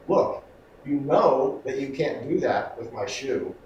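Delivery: slow, reasonable explaining; explaining calmly. Shown as a demonstration. The wrong way, calmly reasoning with the dog. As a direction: spell it out slowly to the dog. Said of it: "I'm not explaining myself".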